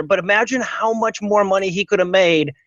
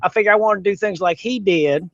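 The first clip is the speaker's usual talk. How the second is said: put-on hick voice. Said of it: "so I figure I'd talk like this".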